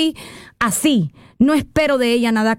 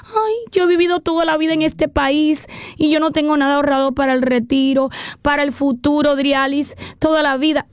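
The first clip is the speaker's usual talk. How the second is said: a lightly voiced weepy complainer; mock whining; 3 semitones higher than usual. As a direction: whimper like someone who blew it all and cries about it. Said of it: "no nos podemos quedar llorando".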